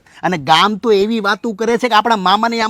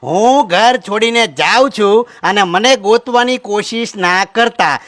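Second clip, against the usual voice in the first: reading the letter; 4 dB louder than usual. Acted. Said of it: "વાંચી દો".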